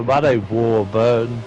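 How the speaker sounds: put-on slow drawled Southern accent. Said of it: "Did I could talk like this".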